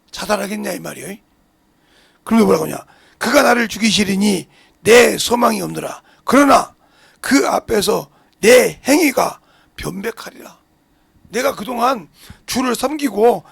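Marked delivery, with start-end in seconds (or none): 3.2-10.6 slow, weighty reading of a Bible verse; solemn, drawn-out recitation of Job; scripture reading. Acted. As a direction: read each phrase slowly, like scripture from the pulpit. Reads Job verse aloud.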